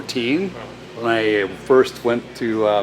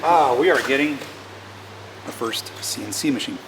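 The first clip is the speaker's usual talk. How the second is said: mouth full; 2 semitones higher than usual. Real, not acted. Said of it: "I still got Reese's Pieces in my mouth".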